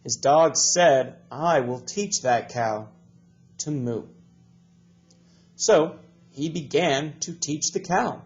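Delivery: slow, deliberate storybook read-aloud; reading to children. Acted. Teacher reading a story to the class, slow and clear. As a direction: read it slowly for young learners.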